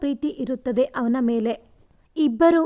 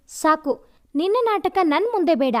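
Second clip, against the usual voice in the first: mildly forceful, higher-pitched rebuff; loud rebuff; 5 semitones higher than usual. Acted. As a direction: cut him off, only slightly louder. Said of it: "ಜೋರಾಗಿ".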